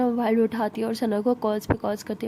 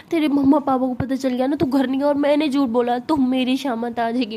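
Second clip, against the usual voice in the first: louder, panicked telling-off down the phone; louder frantic scolding of a missing friend on the phone; 3 semitones higher, 4 dB louder than usual. Acted. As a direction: chew her out in a panic.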